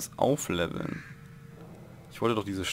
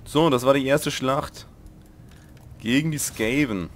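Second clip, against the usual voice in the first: put-on pseudo-Russian accent; 5 semitones higher, 9 dB louder than usual. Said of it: "mit so einem pseudo-russischen Akzent geredet habe".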